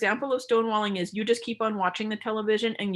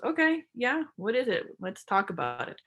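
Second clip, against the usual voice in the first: open, willing; 2 semitones higher than usual. Shown as a demonstration. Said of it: "the other person goes".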